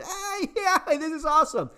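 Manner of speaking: high, bouncy, laughing mock-excited voice; voicing excited dogs. Voicing the playful dogs with the kids, excited. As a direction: play the hyper dogs wanting to play. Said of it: "other two dogs ecstatic".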